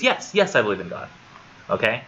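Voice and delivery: exasperated retort. Retold or imitated. Doctor badgered about his belief, exasperated. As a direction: imitate a badgered doctor, voice jumping up.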